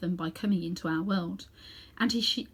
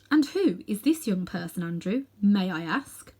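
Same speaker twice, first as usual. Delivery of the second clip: icy. Acted. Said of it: "said Aunt Letty in icy tones".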